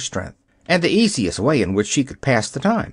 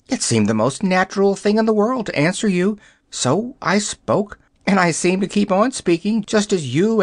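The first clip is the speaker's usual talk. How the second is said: high, quick fussy hen voice; a hen rattling off her ordeal; chattering yellow hen; 6 semitones higher than usual. Acted. Hen explains her speech.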